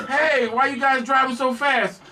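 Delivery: high, drawn-out imitation of a cop; cop calling out. Cop questions speeding car at its window, slow high call. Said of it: "And the cop said".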